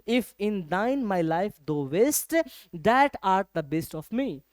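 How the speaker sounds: very slow recital of the verse; slow poem reading. Shown as a demonstration. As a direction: read it out word by word. Teacher recites poem line.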